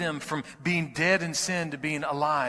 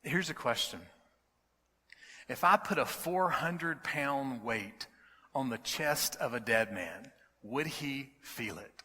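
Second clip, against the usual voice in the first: calm reply. Retold or imitated. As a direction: settle him down with calm. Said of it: "very calmly replied back".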